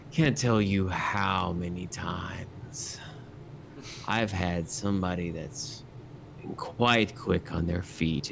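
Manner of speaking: slow, breathy, menacing close whisper. Acted. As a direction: lean in and breathe the words slowly. Drunk NPC leans in close.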